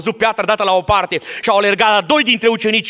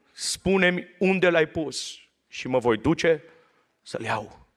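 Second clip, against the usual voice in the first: low, soft scripture telling; almost whisper the scene; hushed storytelling; 4 semitones lower, 6 dB quieter than usual. Acted.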